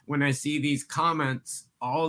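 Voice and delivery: exasperated, with STAND drawn out; exasperated rant. Real, not acted. Co-host starting a mini rant about market comments, exasperated. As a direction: stretch STAND slowly in real exasperation. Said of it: "I'll go off on a mini rant".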